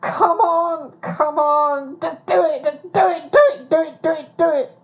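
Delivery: high, loud self-urging, rising to a near shout; urging herself on. Retold or imitated. A woman pushing herself through the moment, high urgent urging. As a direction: push yourself, over and over. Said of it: "saying to myself".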